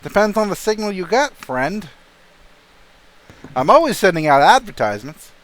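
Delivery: deadpan shopkeeper. Acted. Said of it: "He looks at you deadpan and just straight eyeballing you like".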